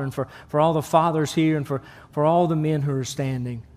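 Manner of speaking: pastoral prayer. Acted. Pastor leads congregation prayer.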